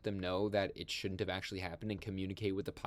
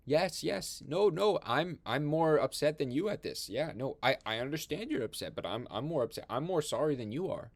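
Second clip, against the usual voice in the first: higher and louder, over-eager apologetic president; flustered president on the phone; 6 semitones higher, 4 dB louder than usual. Retold or imitated. President placating the drunk Russian premier on the phone, flustered and pleading.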